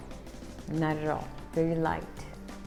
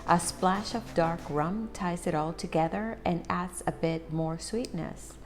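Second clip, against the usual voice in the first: slow product read; slower than usual. Acted. Reads the tin description aloud.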